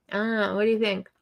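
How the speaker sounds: talking around a straw; straw in mouth. Real, not acted. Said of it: "I say with a straw in my mouth".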